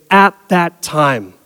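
slow, deliberate reading of the phrase; slow quoted phrase. Shown as a demonstration. Preacher quoting the verse's marker phrase, slow and deliberate. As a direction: lay out each word, slowly. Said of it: "signaled by the phrase".

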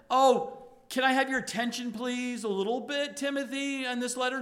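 light, quick polite ask; hammed-up offhand politeness; mock casual request. Shown as a demonstration. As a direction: shrug it off like a timid favour.

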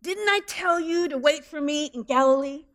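high, mock-angry yell from the shore; hammed-up scolding shout across the water; a scolding call that climbs high; mock screaming. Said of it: "Is he screaming at them from the shore".

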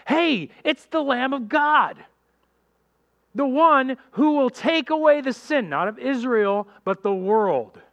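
high, slow, ringing announcement; John the Baptist announcing the Lamb; joyful proclamation. Retold or imitated. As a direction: proclaim the good news with wonder.

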